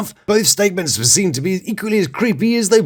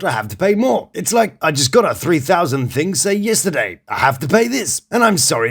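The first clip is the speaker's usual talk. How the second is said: put-on British accent. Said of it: "which I will read to you now in my delightful British accent".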